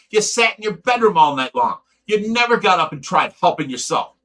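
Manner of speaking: loud, real anger, shouting at DJ; furious shouting. Real, not acted. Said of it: "that got me, my blood boiling".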